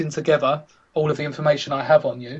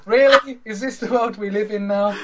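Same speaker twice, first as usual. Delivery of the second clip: incredulous; 6 semitones higher than usual. Retold or imitated. Retold incredulous reaction.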